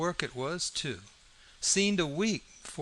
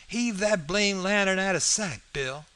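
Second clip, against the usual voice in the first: higher, louder command; sharp order; 7 semitones higher, 4 dB louder than usual. Acted. Robber telling Bill to hide the lantern, sharp order. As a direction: order a partner about irritably.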